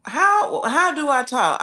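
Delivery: sharp high jump on how, then sinking back; indignant disbelief. Real, not acted. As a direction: caught off guard and offended, ask it back. Reacting to a viewer's racist question.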